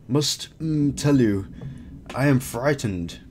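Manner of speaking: slow, halting cave-creature voice; lightly voiced frightened creature. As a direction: draw out the words as an odd old wizard-creature. Voices the creature Sabik Tan.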